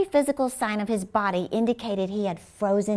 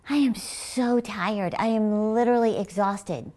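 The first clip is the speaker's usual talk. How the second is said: mock weariness. Getting up in the morning, mock weary. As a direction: drag it out as if worn out. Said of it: "saying things like".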